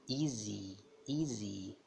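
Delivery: EASY com o I bem forte. Shown as a demonstration. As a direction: alongue e reforce o som de I em EASY. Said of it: "bem forte o som do I". (EASY, Y final como I forte)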